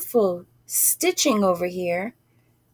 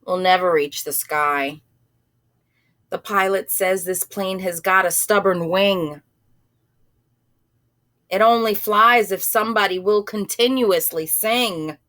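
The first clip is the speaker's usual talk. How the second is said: gloomy person; 3 semitones lower than usual. Acted. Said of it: "a gloomy person said".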